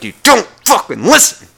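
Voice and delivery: loud, high mock yell; imagined yell. Fantasizing about yelling at the oblivious old woman, loud. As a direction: yell it at her in frustration.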